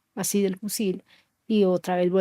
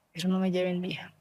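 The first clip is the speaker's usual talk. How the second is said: whispered, begging plea; a mother whispering to guerrillas not to take her daughter, pleading; 5 dB quieter, faster than usual. Retold or imitated. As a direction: breathe it as a desperate plea.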